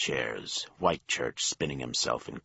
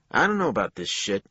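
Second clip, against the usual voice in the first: worried; 8 semitones higher, 8 dB louder, faster than usual. A narrator's reading. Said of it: "He was worried".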